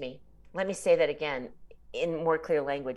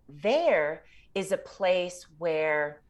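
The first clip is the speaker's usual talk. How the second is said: slow and searching; much slower than usual. Real, not acted. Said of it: "I'm pausing so that I can listen".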